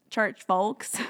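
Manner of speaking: put-on playful Southern accent from Tennessee and Alabama; funny accent. Joking about church people, in a funny Southern accent. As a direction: put on a jokey Southern twang. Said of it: "say it in my funny accent".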